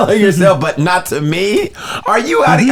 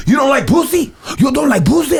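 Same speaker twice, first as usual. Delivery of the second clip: high, rising taunt; mocking taunt; 8 semitones higher than usual. Angry window woman taunting the refusing man. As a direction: tease him up high. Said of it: "I swear, she goes".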